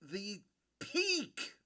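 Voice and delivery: words stretched through a yawn. Real, not acted. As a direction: talk while yawning slowly. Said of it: "watching me yawn".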